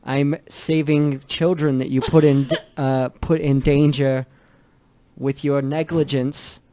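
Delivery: loud, laughing-through-it telling off; indignant. Acted. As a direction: scold him for his negligence, half laughing. Arguing with the hobgoblin in character.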